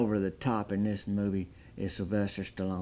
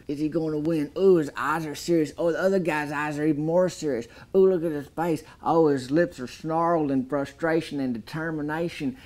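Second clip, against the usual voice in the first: excited build-up; 4 semitones higher than usual. Acted. Hyping the arm wrestling montage.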